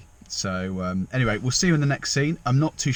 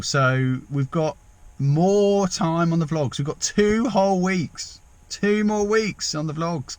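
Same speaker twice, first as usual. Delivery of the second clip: slow and higher, savouring it; gleeful drawn-out announcement; 5 semitones higher, much slower than usual. Real, not acted. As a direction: gloat happily, stretching words. Gleeful about extra holiday.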